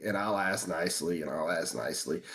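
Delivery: low, gentle repetition; asking nicely. Retold or imitated. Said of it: "And I ask nicely".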